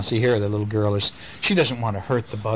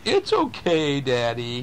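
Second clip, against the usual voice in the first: put-on child comforting; slower than usual. Dad imitating his kids consoling him, lightly childlike. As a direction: say it like a kid soothing dad. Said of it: "you always say".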